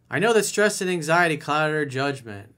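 mock excuse. Coach imitating client's self-deception, lightly mocking.

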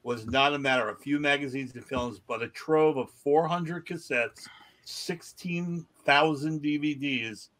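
measured article read-out; news story read aloud. Acted. Podcast host reads odd news to co-hosts, news read-out.

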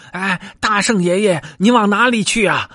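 very high, rushed little-monkey plea; panicked pleading. A narrator's reading. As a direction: clutch at him in alarm, begging. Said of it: "慌的那群猴拦住道".

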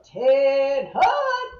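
confident drill call; loud command call. Retold or imitated. Class leader calling recruits to attention, loud command.

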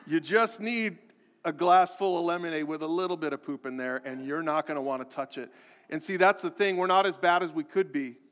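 ordinary talk, nothing marked

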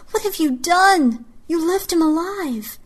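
high, loud furious rebuke; angry shout. A narrator's reading. Neva berating Trice for her mistake, furious shout. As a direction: rage at a fatal blunder. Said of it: "I shouted at Trice".

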